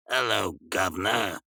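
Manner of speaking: drawn-out catchphrase greeting; demonstrated catchphrase. Shown as a demonstration. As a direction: show how the catchphrase goes, slowly. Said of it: "Like that right there. Do it right".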